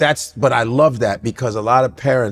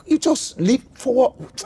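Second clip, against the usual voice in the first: mock angry dad; 9 semitones higher, slower than usual. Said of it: "it was like".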